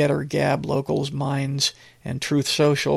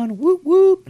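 much higher and louder mock whoop; mock cheering; 7 dB louder than usual. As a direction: cheer it like an overexcited fan, mocking. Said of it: "responses of people going".

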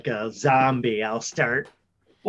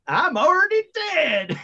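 undead menace; 14 semitones higher than usual. Acted. Zombie character menaces.

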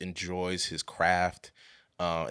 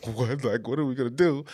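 panicked whisper that climbs into a fretful question; retold starstruck panic, hushed then rising; whispered nervous fluster; freaking out whisper; 3 semitones higher than usual. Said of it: "I was just, like, freaking out".

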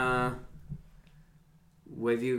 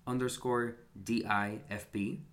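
NPR whisper voice. Real, not acted. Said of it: "go into N P R whisper voice for that".

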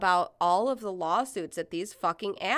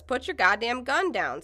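mild, higher-pitched yell; 5 semitones higher, 3 dB louder than usual. Retold or imitated. Protester to woman with gun, yelling mildly. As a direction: call out a firm order. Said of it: "someone yells".

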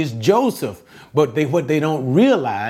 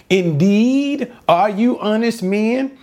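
higher, probing question; doubting Joseph; 7 semitones higher than usual. Acted. Joseph testing the brothers who sold him, skeptical. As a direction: Joseph sizing up his brothers, voice raised.

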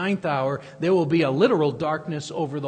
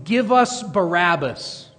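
loud, slow retold shout; crowd's shout; 2 semitones higher, 7 dB louder, slower than usual. Preacher imitating the crowd in John's gospel, raised voice. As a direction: call it out like a demanding crowd, drawn out. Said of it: "they will be shouting".

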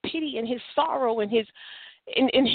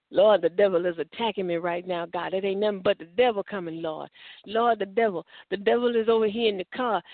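mock fretful prayer; 3 semitones lower than usual. Mocking believer's panicky devil-blaming prayer.

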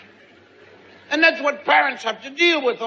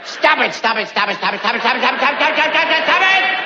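auctioneer; much faster than usual. Retold or imitated. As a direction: rattle it off, build to a yell. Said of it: "Sound like a tobacco auctioneer".

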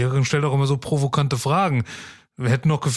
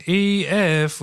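calling out; 5 semitones higher than usual. Acted. Sailor calling to wife.

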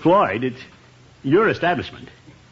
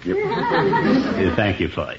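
laughing; 5 semitones lower, much slower than usual. Acted. Laughing thanks to Floyd.

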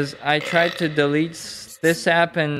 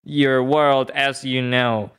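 lightly lowered, solemn movie guide; Neo voice; 4 semitones lower than usual. Pretend. Plays Neo, deep changer voice.

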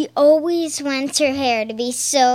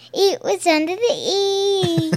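put-on Accent Girl; 5 semitones higher than usual. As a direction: repeat the catchphrase in a mock British accent. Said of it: "Only the time I said".

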